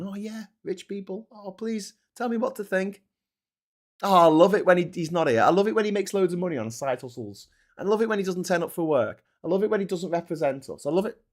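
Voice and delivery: high, gushing parody voice; mock fawning Scousers. Scousers adoring an absent MP, mock gushing. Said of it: "people who are Scousers going".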